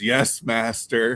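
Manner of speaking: put-on sarcastic young child voice. Retelling how their six-year-old answers them: imitating sarcastic child. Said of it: "like like like sarcastically".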